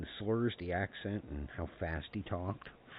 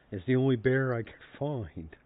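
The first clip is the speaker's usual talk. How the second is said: loud, higher hapless excuse; raised mock-defensive voice; imitated drunk grandpa; 7 semitones higher, 9 dB louder than usual. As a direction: plead innocence as a tipsy grandpa, retold. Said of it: "he was so drunk".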